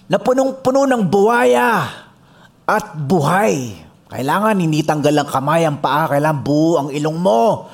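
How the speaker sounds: booming party host on the mic; millionaire announcing. Retold or imitated. Millionaire announces contest on microphone.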